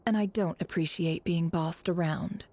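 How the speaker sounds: breathy sly warning, voice dropped to a whisper. Acted. Sly retort to a partner.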